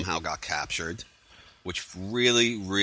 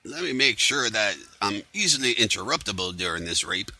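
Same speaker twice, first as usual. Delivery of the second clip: sarcastic; 3 semitones higher than usual. Retold or imitated. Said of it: "which is real fucking intelligent".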